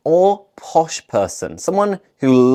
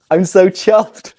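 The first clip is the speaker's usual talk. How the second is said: higher, louder delighted exclamation; really pleased; 4 semitones higher, 5 dB louder than usual. Shown as a demonstration. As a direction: sound thoroughly chuffed. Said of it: "you are really pleased".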